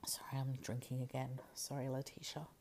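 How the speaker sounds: soft sheepish whisper; whispered apology. Real, not acted. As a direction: whisper a quick sorry. Apologizing for drinking on mic.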